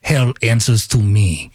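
low, slow fake Russian-German villain accent; Doom accent. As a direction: growl it like Doctor Doom with a foreign accent. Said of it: "That, that accent's gonna be tough to get past".

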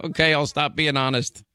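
real laugh spilling into the words; laugh, then concede teasingly; amused laughter. Real, not acted. Host gives in to protesting caller, laughing.

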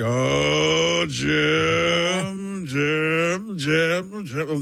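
revving-up Romo voice; excited Romo calling Jim; Tony Romo impression. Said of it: "he would rev up talking".

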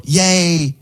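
flat yay. Shown as a demonstration. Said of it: "listen how you say it".

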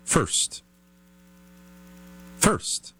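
hushed whisper. Acted. Host whispers the secret queso-first trick.

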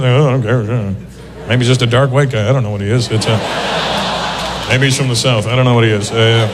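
low, easygoing white-guy voice; unbothered white guy. Retold or imitated. White guy puzzling over the comedian's name, unbothered. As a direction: drop the pitch, reasoning it out without caring. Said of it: "White people, they hear Russell Peters".

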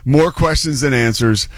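TV news voice. Shown as a demonstration. Host playing TV storm reporter, measured news read. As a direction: play the serious storm reporter. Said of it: "I'm dipping into my T V news background".

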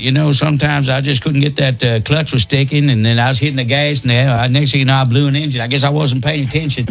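mock NASCAR driver accent. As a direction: drop into a good-ol'-boy NASCAR driver telling his race. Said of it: "That's how he interviewed the drivers".

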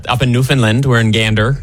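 put-on brief, lively Newfoundland accent on request. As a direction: show off a quick Newfoundland accent, called out a bit. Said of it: "Can we hear the accent?".

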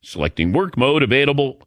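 smooth, slightly lifted radio sponsor read. Acted. Host pitching a chatbot to listeners, light ad-read delivery. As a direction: sell the features clearly, item by item.

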